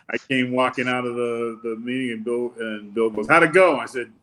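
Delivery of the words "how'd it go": eager retold question. Bill eagerly asking after meeting.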